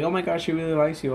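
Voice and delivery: put-on retelling his drunk self, gushing overdramatically about grandma; overdramatic tearful gush. Hammed-up drunken sentimental gush. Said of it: "being over fucking dramatic".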